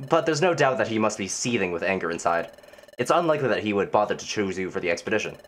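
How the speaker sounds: coolly disapproving character read; stern game superior. Acted. Voices a game character's dismissal.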